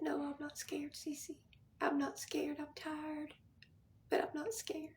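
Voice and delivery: soft whispered reassurance, fading; a quiet voice from a hospital bed; tired whisper. Retold or imitated. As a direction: hush it like a dying woman comforting her sister. Quoting her dying sister's reassurance.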